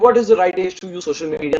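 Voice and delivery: 1 rushed question. Shown as a demonstration. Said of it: "you should have a different tone than".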